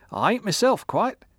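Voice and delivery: put-on high, loud boozy old woman; drunk old woman. A narrator's reading.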